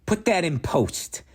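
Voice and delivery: whispered aside. Pretend. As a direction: breathe it as a whisper. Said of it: "I work in the movies and I say".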